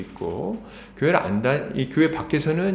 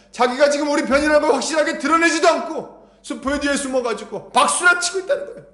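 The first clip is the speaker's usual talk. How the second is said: much higher, urgent exhorting voice; impassioned preaching; 12 semitones higher than usual. Real, not acted. Preacher rebuking believers who only applaud from behind, impassioned. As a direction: challenge the congregation with rising fervor.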